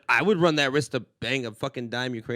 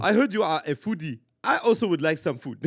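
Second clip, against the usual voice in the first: African village guy; 4 dB louder than usual. Retold or imitated. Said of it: "the village guy".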